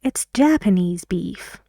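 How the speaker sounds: Japanese with stress moved to Ja-; stress on first syllable. Shown as a demonstration. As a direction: hit the "Ja" of "Japanese" before "beef". (تکیه روی هجای اول Japanese، قبل از beef)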